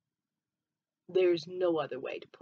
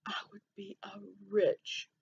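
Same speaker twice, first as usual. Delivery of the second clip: whispered; 2 semitones higher, 5 dB quieter than usual. Real, not acted. Dreaming of being rich.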